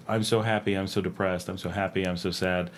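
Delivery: low-key, level delivery of big feelings; small, contained swings in mood; understated emotion. Shown as a demonstration. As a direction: barely move the voice, as if emotions are muted. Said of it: "where everything's just this very, like".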